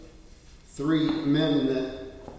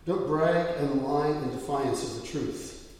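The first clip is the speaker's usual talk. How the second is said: scripture reading. Acted. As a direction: read the verses solemnly to the church. Pastor reads scripture aloud.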